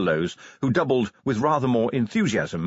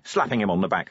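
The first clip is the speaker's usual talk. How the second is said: usual speaking voice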